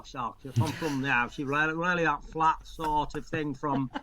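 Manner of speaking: really flat Barnsley-style accent; flat northern accent. Shown as a demonstration. Actor shows how his talk differed, flat Barnsley accent. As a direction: flatten it out into broad South Yorkshire. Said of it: "who talked like that".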